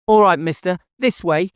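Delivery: put-on high girl's voice, grudging agreement; a small girl finally leading the way; high, matter-of-fact child's voice; little girl giving in.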